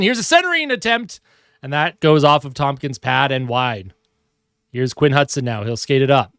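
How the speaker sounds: hockey announcer calling the action; lively sportscaster call; live play-by-play. Acted. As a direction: call the game like a TV broadcaster. Mock hockey broadcast while playing.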